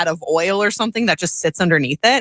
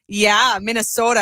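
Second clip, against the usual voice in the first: higher, put-on Minnesota accent; hammed-up Minnesota accent; thick Minnesota accent; 4 semitones higher than usual. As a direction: lay on the Minnesota O. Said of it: "I'd lay it on real thick".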